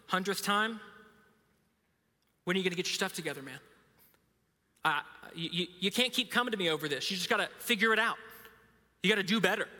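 mildly exasperated imagined God; half-hearted fed-up scolding; mock frustration. Imagined God keeping tally, mock exasperation. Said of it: "getting frustrated that you just come again".

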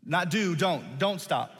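"don't" leaned on, set against "do"; stress on don't. Shown as a demonstration. Preacher correcting the word he missed, stressing "don't". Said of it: "a very pivotal word of don't".

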